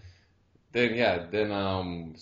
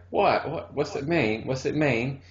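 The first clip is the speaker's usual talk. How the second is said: higher-pitched, insistent questioning; imitated curious girl; 5 semitones higher, slower than usual. Retelling the girl asking what the phrase means, imitated eager puzzlement. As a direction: pester playfully as the puzzled girl.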